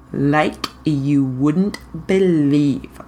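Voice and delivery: slow, amused laugh through it; wry laughing reply. Acted. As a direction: chuckle it out slowly. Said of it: "Barney laughed".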